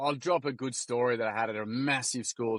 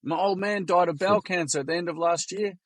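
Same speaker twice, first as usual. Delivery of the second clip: higher Kiwi boy impression; Kiwi accent; 7 semitones higher than usual. Kiwi boy shares his dad's death with the boys, higher Kiwi accent. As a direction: tell it in a pitched-up Kiwi voice. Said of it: "Excuse my Kiwi accent".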